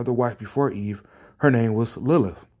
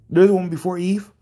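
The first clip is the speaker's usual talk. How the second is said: incredulous repeat; 4 semitones higher, faster than usual. Real, not acted. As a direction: throw the question back in disbelief. Repeats the comment in disbelief.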